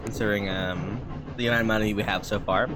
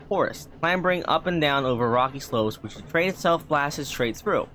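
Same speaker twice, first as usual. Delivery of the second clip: reading the story aloud; story narration. Acted. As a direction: narrate the journey like a book. Reads game story text aloud.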